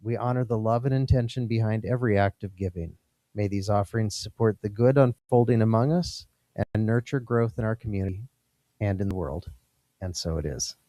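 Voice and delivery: softly spoken prayer of blessing; offering blessing. Real, not acted. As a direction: bless the gifts gently, phrase by phrase.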